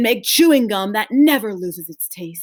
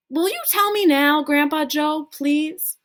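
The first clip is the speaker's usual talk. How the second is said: put-on pleading child voice; 8 semitones higher than usual. Charlie begs.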